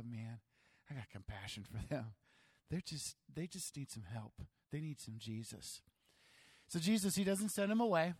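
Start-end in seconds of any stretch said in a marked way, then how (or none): 0.0-5.8 soft, lower sigh of compassion; compassionate. Retold or imitated. Pastor softly voicing compassion for his people. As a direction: murmur it with real care. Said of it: "look on those under our care".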